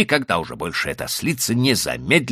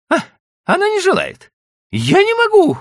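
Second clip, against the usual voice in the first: very high, loud panicked cry; frightened voice; 9 dB louder than usual. A narrator's reading. Wife on runaway cart crying to husband in fright. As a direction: wail that you can't stop it. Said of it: "полный испуга голос".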